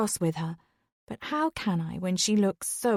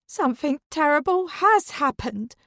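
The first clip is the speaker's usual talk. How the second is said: aghast; 7 semitones higher, 4 dB louder than usual. Acted. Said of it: "Dawn looks aghast at her husband".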